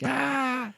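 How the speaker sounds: mock gasp. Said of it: "laughing at him like".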